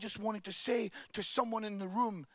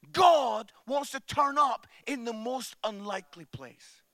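proclaimed refrain; 5 dB louder than usual. Real, not acted.

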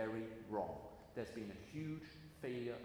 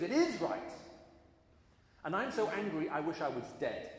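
much higher and louder, angry shout; furious outburst; 7 semitones higher, 10 dB louder than usual. Retold or imitated. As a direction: shout it like a prophet fed up with God. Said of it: "Jonah maintains his anger against God".

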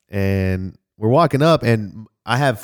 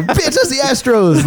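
high, drawn-out mock outrage; outraged comeback; 4 dB louder than usual. Fan calling out scalper pointing at wrong stadium, outraged comeback. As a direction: call out the lie, slow and high-pitched.

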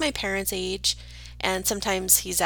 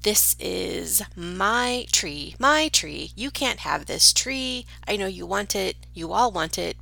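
robin's claim. Pretend. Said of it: "him screaming".

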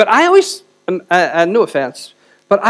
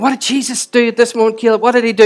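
great excitement; 3 semitones higher than usual. Retold or imitated. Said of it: "with great excitement".

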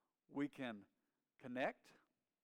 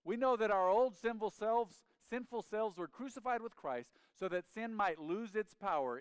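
loud, raised preacher's voice; forceful preaching; 7 semitones higher, 7 dB louder than usual. Acted. Preacher reading scripture to the congregation, forceful. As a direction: declare the verse with force.

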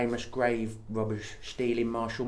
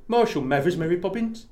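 mock Cockney; 8 semitones higher than usual. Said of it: "a more Dick Van Dyke one".

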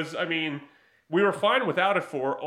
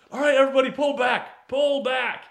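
Mike Tyson yelling; 6 semitones higher, 5 dB louder than usual. Retold or imitated. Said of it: "Mike Tyson yells".

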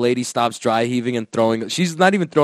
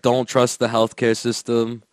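low-pitched retold warning; matter-of-fact advice; 4 semitones lower than usual. Pakistani lady advising her seatmate, low matter-of-fact warning. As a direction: state it low and evenly. Lady's advice, then girl echoes.

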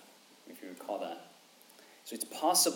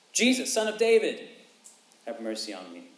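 crying out; 6 dB louder than usual. Acted. Beggar's cry retold.

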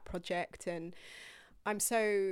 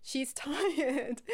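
tired Ethel voice; 6 semitones higher, 4 dB louder than usual. Pretend. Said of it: "this is Ethel now 'cause she's tired".

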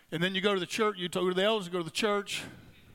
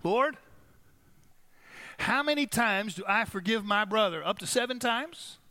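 Peter asking; 3 semitones higher than usual. Acted. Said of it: "and he asked".

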